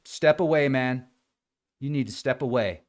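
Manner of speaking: quiet, soft de-escalating voice; calm the angry guy down gently; soothing an agitated stranger quietly. Retold or imitated. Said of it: "I'm like".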